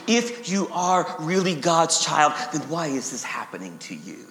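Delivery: insinuate doubt, letting the voice drop away; slithering accuser. Acted. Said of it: "with his same slithering questions".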